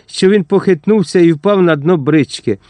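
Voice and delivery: ordinary delivery, nothing marked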